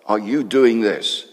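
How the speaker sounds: loud, slow confrontation; challenging demand. Acted. High priest confronting Jesus, loud slow challenge. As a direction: demand an answer, slow and hard. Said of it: "And he said".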